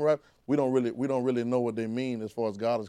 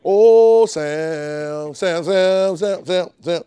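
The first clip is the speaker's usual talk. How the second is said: calling a name over and over; 6 dB louder, much slower than usual. Pretend. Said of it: "you calling like that".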